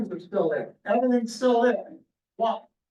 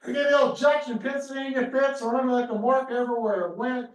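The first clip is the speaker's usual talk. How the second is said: quoted soldier; 4 semitones higher than usual. Retold or imitated. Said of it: "I love this quote".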